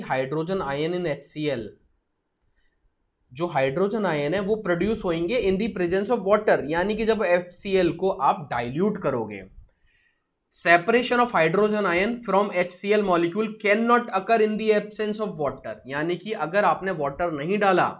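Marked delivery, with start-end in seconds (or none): 0.0-1.7 slow dictation. Shown as a demonstration. Teacher dictating a definition. 10.6-15.7 slow dictation. Shown as a demonstration. Teacher dictating a definition to students, slow and deliberate.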